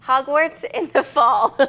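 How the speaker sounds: slow, Hogwarts in the fall said beat by beat; syllables counted out. Shown as a demonstration. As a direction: read it beat by beat. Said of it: "to embody fall in the Hogwarts".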